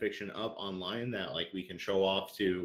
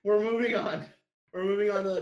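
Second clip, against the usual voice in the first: louder, higher, firm cut-off; 10 semitones higher, 6 dB louder, faster than usual. Real, not acted. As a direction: shut the topic down loudly. Host cutting off joke.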